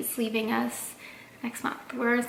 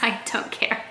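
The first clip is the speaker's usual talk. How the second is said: whispered. Real, not acted. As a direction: whisper it like it's nothing. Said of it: "dismissive whisper to haters".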